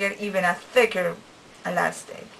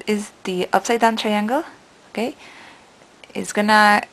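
talking through braces display; finger pulling lip; 5 dB louder than usual. Real, not acted. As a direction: mouth corner stretched open. Seen 0: Finger intermittently stretches mouth corner to show braces while talking.

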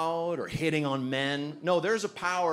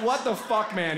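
self-pitying mutter; 6 semitones higher than usual. Retold or imitated. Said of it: "he said to himself was so good".

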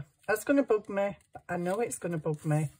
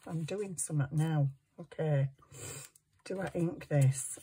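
ordinary talk, nothing marked

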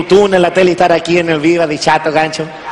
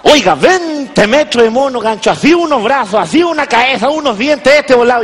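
put-on excited kid description; 4 semitones higher than usual. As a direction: paint the giant monkey as a thrilled kid. Grandson describing King Kong.

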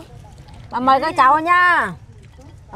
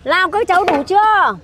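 raised-pitch group call; 6 semitones higher than usual. Real, not acted. Calls to the children for answer.

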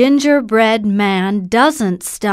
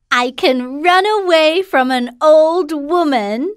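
gingerbread man voice; 7 semitones higher than usual. Acted.

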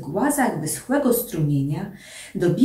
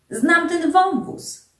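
high, drawn-out exclamation; sudden call; 9 semitones higher, slower than usual. A narrator's reading. Klapaucjusz on the run spotting a gorge, sudden high call. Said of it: "zawołał nagle Klapacjusz".

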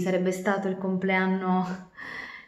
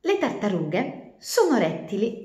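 slow, careful first line of the tale; slow story opening; 4 semitones higher than usual. A narrator's reading. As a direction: begin the story slowly. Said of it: "false start then retake". (inizio lento della fiaba)

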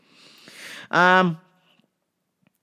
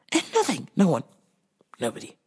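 mock despair; 3 semitones lower, 5 dB quieter, much faster than usual. Self-pitying rant.

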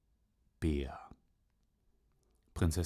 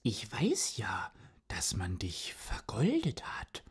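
Katze; 4 semitones higher than usual. Acted. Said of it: "sagte die Katze".

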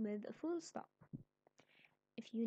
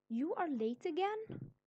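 high, loud scolding; angry; 6 semitones higher, 6 dB louder than usual. Shown as a demonstration. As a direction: tell off a latecomer in a raised voice. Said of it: "Here she is angry".

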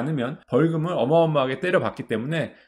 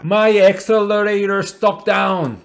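panicked English plea; 4 semitones higher, 7 dB louder, much slower than usual. Retold or imitated. Quoting panicked driver in English.

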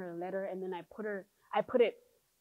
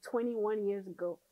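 sassy mock scolding; 10 dB louder than usual. Daughter scolding her mom about the pregnancy, sassy and loud. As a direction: talk back with a playful girl-please attitude.

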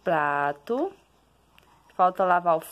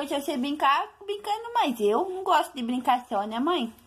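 put-on lightly raised babyish voice; speaking as the baby; 6 semitones higher than usual. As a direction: voice the baby, a little higher.

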